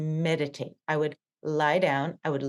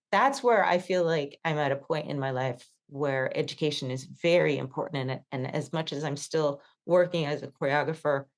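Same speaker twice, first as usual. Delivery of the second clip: shaky voice. Real, not acted. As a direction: voice shaking, close to tears. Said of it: "my voice is shaking now because I'm gonna cry".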